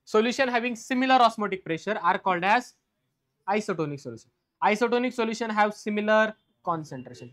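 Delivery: dictating each word slowly for notes; slow dictation. Shown as a demonstration. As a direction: spell the definition out slowly so students can write. Dictates definition to class.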